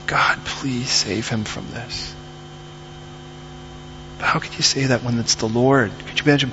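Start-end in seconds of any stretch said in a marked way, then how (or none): 0.1-2.1 soft, slow, heartfelt plea; quiet prayer. Retold or imitated. Neighbors praying for the little boy, soft slow prayer. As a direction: pray it softly, drawing out the words. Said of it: "we just started praying".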